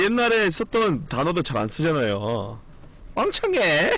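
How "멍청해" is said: high mocking yell of an insult; shrill-pitched teasing shout; old catchphrase. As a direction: squeal it high. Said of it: "막 이런 거".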